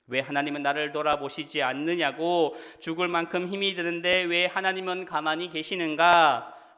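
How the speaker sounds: mildly acted reproach, pressing at the end; resentful complaint. Believers worn out by suffering complaining to God, mild resentful complaint. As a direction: complain to God with a touch of force. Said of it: "하나님을 향하여 원망합니다".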